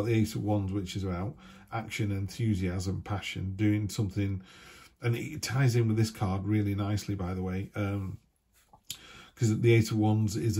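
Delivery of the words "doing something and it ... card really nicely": ordinary talk, nothing marked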